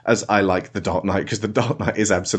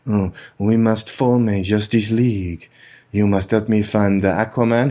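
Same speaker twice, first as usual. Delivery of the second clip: put-on Wonder Woman accent. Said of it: "She goes".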